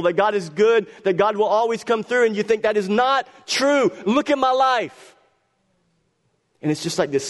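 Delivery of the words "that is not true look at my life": bitter disbelief. Retold or imitated. Voicing angry doubter.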